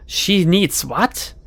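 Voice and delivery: slow, pointed disbelief; sharp. Acted. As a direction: draw the question out sharply. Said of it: "Her tone is sharp".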